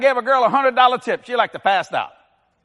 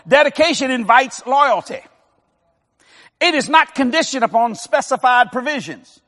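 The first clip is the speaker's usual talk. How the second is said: dictation. Shown as a demonstration. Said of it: "Write this down".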